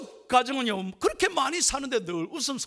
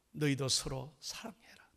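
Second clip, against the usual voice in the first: soft, low, near-whispered quote; hushed and weighty; hushed divine command; 6 semitones lower, 6 dB quieter than usual. Retold or imitated. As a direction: drop to a quiet, tender command. God's command, quoted again.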